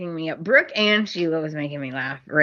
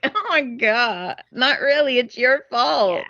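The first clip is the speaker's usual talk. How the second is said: exasperated mock; 5 semitones higher than usual. Reacting to Sheila, sarcastic higher voice. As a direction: roll eyes at her. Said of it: "I'm like".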